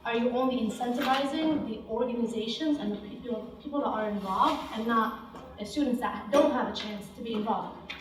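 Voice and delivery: winded, gasping between words; talking while short of breath. Real, not acted. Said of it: "oh, I'm out of breath".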